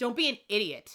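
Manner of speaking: ordinary talk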